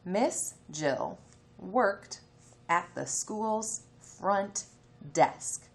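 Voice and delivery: slow, careful read-aloud for early readers; reading to children. Acted. Teacher reading a phonics story to her class, slow. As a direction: read it slowly so little ones can follow.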